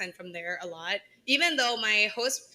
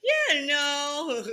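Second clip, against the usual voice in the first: YEAH, NO drawn out, raised pitch; Midwestern catchphrase; 4 semitones higher than usual. Shown as a demonstration. Trying out a newly noticed Midwestern habit, drawn-out YEAH, NO. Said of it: "I start to realize it".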